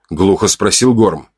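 steady audiobook narration; story narration. A narrator's reading. Narrator reading the story to listeners. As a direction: tell the tale evenly.

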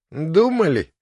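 "Думали?" thrown back high and loud, scornful; contemptuous echo of his word; disgusted mock echo. A narrator's reading. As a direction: sneer the word back at him. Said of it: "с отвращением взглянула".

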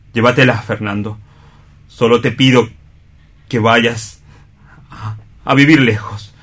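a proud, hurt man giving up his love; stage-drama Juan, grief held under pride; anguished rival in a radio play; Juan, bitter and wounded. Acted. Juan confronts Fernando and Chole.

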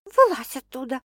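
stern command. Acted. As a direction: order it sternly. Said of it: "сурово произнесла".

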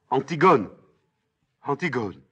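high cries, the second fading; crying out. Acted. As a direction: call after a sister being taken away. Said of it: "Ismène sort derrière elle en criant". (appels criés, qui retombent)

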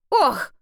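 high sharp "ох" as he trips; stumbling gasp; startled exhale. A narrator's reading. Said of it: "выдохнул".

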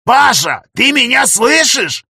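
high, loud, desperate near scream; nearly screaming to reach him; near shout. A narrator's reading. Professor to his friend, desperately almost screaming. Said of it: "Дальше он уже почти кричал".

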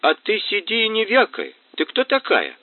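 put-on high, rough bark at the girl; грубый окрик Кацубы. A narrator's reading. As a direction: snap at her to sit down. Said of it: "Кацуба развернулся к ней". (грубо, свысока)

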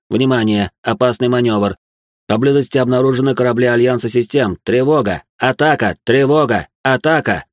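lifeless robotic alarm announcement; loud, machine-like ship alert; mechanical voice. Acted. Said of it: "сообщая неживым механическим голосом".

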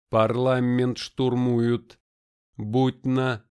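loud, slow alarmed cry; urgent alarm. A narrator's reading. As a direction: call it out in panic. Urgent message cut off.

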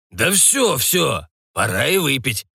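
high impatient shout of a pirate; eager pirate cry. A narrator's reading.

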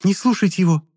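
very high squealing plea; girl squealing at the others. A narrator's reading. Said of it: "заверещала Шарлотта".

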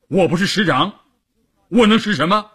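high-pitched emphatic protest; acted indignant insistence; insistent protest. A narrator's reading. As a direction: push the rhetorical question up high. Character keeps protesting his rank.

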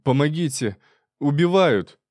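dazed man crying out for rescue; wheezing cry for help. A narrator's reading. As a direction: yell it as if being murdered. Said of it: "просипел".

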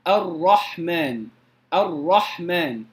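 الرحمن slow, ر with one or two light taps; correct ra. Shown as a demonstration. Teacher models the correct ra for students, slowly. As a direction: drawl الرحمن gently, brief trill on ر. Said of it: "وإنما الراء".

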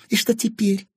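high, venomous hiss. A narrator's reading. Cornered Anfisa challenging Timofey, hissing. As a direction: spit the threat out, pitched high. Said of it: "прошипела Анфиса".

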